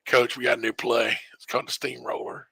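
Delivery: conspiratorial hush; hushed pitch. Retold or imitated. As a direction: lean in and whisper the name like a secret. Team pitching a secret play.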